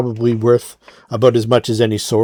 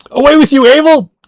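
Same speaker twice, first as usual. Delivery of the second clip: shrill scream, very high and very loud; 10 dB louder than usual. In a roleplaying game, a character orders another to leave, screaming. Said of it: "he screams out".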